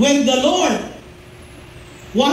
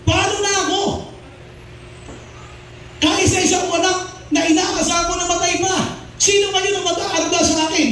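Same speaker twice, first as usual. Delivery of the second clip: higher-pitched, mildly acted despair; acted anguish, pitched up; sorrowful lament; 4 semitones higher than usual. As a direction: voice a bereaved mother's helpless plea. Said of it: "Extreme sorrow, nararamdaman niya".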